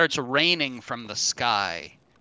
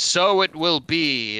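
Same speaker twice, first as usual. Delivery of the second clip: genie decree; 5 semitones higher, 6 dB louder, slower than usual. Acted. Genie grants second wish.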